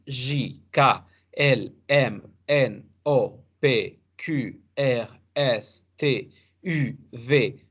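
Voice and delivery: letters of the French alphabet said slowly one by one; French alphabet recital. Shown as a demonstration. Teacher reciting the French alphabet to students, slow and careful. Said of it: "el alfabeto francés".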